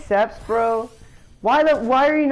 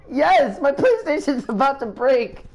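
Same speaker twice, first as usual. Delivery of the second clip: laughing; 3 semitones higher than usual. Real, not acted. Laughing at friends' noise.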